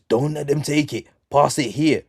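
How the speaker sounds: mildly urgent pitch-side call; calling for the ball. Acted. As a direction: call out mid-match to a teammate. Acted teammate calling for ball.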